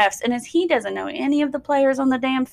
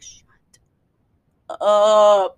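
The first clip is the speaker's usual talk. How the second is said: hissed whisper; whispered shut up; 5 dB louder than usual. Retold or imitated. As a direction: whisper it through the teeth. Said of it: "It's like".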